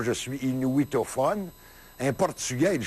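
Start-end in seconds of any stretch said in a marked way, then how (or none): 0.0-1.5 mock quote. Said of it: "il dit pas".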